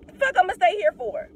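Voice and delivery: exasperated. Real, not acted. Exasperated rhetorical question.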